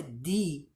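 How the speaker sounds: "the" said as "thee", a long ee. Shown as a demonstration. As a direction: model the vowel form "the" as "thee". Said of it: "o som da vogal".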